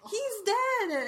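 hammed-up elf wail; distraught Winky. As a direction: shriek it like a panicked house elf. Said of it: "she's like".

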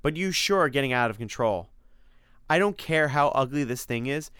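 a hint of exasperated reproach; the speaker, scolding. The speaker tells Simon he's getting out of control, mildly scolding.

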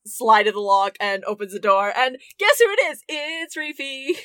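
usual speaking voice

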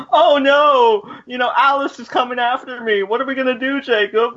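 high, pleading fake panic; mock damsel in distress. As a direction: overact a helpless plea. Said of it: "she was just like".

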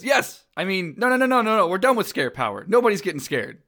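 high, flustered backpedalling; Mike. Acted. Monster caught out over scaring a child, high and flustered. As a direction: blurt it, then hastily take it back, pitched high. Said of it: "Mike says".

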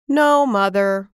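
put-on a boy hiding his disappointment; holding back tears. Boy answers mother while swallowing disappointment, mild sadness. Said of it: "but he could have cried".

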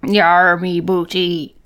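mock pirate, trailing into filler; half-hearted pirate talk; pirate accent. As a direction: improvise in a stock pirate accent. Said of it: "if you do a pirate accent".

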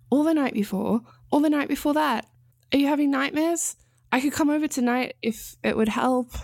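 worried partner. A narrator's reading. Ansel worried, pressing.

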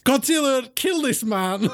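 high, theatrical order; hammed-up villainous command; commanding vampire master. Vampire commands his monster.

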